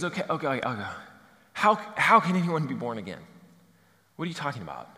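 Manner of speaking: hedge, confused, fading down; mild bewildered Nicodemus; baffled. Retold or imitated. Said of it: "And Nicodemus goes".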